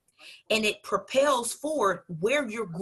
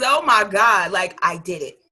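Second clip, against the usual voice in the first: mock triumphant cheer; 3 semitones lower, 7 dB louder than usual. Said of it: "and then says".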